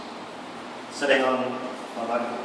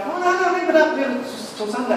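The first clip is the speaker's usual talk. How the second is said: imitating the friend protesting; 11 semitones higher than usual. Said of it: "And he's like".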